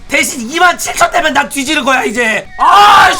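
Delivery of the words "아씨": sharp, high, loud curse; angry shout. Real, not acted. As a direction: explode in frustration. Trade going against him.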